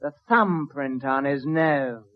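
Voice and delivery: lightly voiced upper-class British sleuth; smug sleuth explaining a clue; pompous detective. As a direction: play the smug detective, a hint of posh British.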